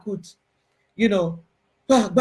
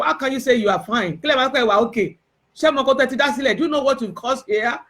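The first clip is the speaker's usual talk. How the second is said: higher, urgent protest, words tumbling; upset pleading with mom; 5 semitones higher, faster than usual. Retold or imitated. Daughter confronting her late mom in a dream, hurt and angry. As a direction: demand an answer, hurt and angry. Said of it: "being angry with her also".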